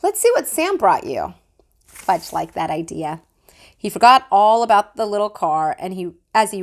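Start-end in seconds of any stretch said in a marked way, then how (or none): 0.0-1.3 higher, lightly voiced coaxing mom; coaxing mother. A narrator's reading. Mother distracting Fudge with the next present, lightly voiced. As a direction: distract the toddler brightly. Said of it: "my mom took the car away and said".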